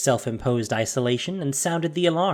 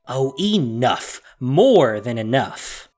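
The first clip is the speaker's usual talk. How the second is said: slow, louder, fed up; cutting him off; 2 semitones lower, 4 dB louder, slower than usual. Acted. Nahiri silencing her mentor, slow and fed up. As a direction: shut down his excuses. Cuts off his excuses.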